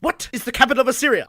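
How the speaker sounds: mock Holy Grail questioner; quoting Monty Python.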